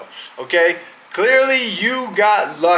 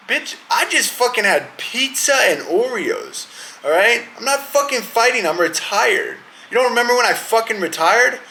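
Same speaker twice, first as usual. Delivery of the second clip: higher, sassy put-on voice, quicker at the end; annoyed retiree brushing off the callout; imagined Amanda reply; 6 semitones higher than usual. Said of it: "watching this shit probably going".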